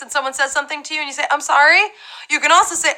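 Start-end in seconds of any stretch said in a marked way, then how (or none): 1.3-1.8 "I'm sorry?" with SORRY rising; asking to repeat. Acted. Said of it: "If you're in a very loud, crowded place".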